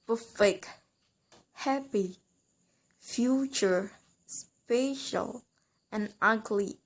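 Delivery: "perfect, happy, future, special, and ugly", each front-stressed; "perfect, happy, future, special, and ugly" as spaced-out stress examples; first-syllable stress. Shown as a demonstration. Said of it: "we stress in the first syllable".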